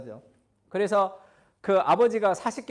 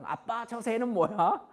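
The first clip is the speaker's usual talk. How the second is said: put-on child asking; 5 semitones higher, slower than usual. Child voiced in retold memory.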